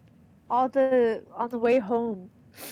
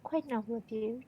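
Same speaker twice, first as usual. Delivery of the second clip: whispering; 7 dB quieter than usual. Acted. Reads nun's dialogue in whisper.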